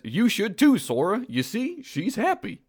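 high-pitched cartoon sidekick voice; Goofy. Sidekick reassures the hero about the girl, high cartoon voice. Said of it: "Goofy says".

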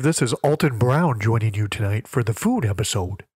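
nasal voice from pinching nose; pinched nose. Acted. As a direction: talk with your nose pinched shut. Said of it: "I can't do an Alton Brown, so I'm just pinching my nose".

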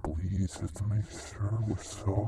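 very high sing-song wheedling wife voice; high pleading housewife. Acted. Wife begging husband to drink dish soap, squeaky high voice. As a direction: coax your husband in a squeaky sweet voice.

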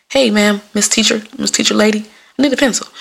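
careful, lilting request to a teacher; code-switched politeness. Acted. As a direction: put on polite manners for the teacher. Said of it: "Time to code switch".

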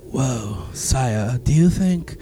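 hammed-up fake British accent, soft; a clumsy British noble; bad British accent. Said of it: "That's another bad British accent".

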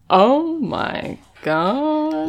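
slow, drawn-out awestruck gasp; awed oh my God. Retold or imitated. Sherlock marvelling at a bee, slow and awed. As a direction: draw it out slowly, in awe. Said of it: "he says it in a very, like".

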